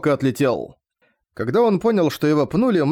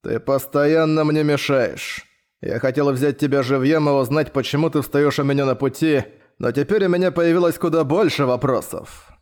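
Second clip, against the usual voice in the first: gleeful villain. Acted. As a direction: savor each word like a gloating villain. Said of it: "радостно проговорил".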